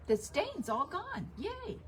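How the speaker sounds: high, sing-song little cheer of false victory; pretend-celebrate, the word yay jumping way up; mock cheer. Homeowner wrongly thinks the stain is gone, mock cheer. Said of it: "and you think".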